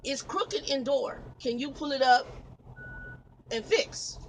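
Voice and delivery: slow, imitating a heavy Spanish accent. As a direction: lightly mimic the Spanish-accented caller. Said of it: "heavy Spanish accent".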